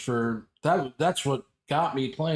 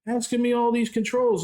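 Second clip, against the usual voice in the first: taunting nephew; 10 semitones higher than usual. Retold or imitated. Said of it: "And he's like".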